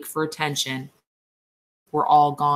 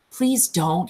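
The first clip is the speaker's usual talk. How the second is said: begging; 3 semitones higher than usual. A narrator's reading. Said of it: "he begged".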